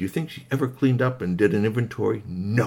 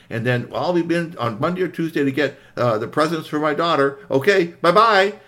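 higher, placating chatter; over-polite, raised-pitch farewell; hasty polite retreat; 5 semitones higher, 3 dB louder than usual. Acted. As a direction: thank them politely and get away. Mother politely making hasty retreat.

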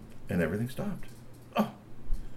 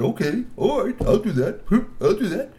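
high eager agreement with a laugh; 10 semitones higher, 5 dB louder than usual. A narrator's reading. Mister Glove agrees.

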